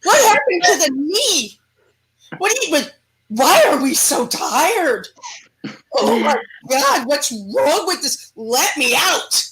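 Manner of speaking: hammed-up whiny demon groaning about an aching body; mock-complain as a demon stuck in a creaky body; demon's complaint. Demon grumbling to its new host, lightly whiny. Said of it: "a demon jumps into my body and goes".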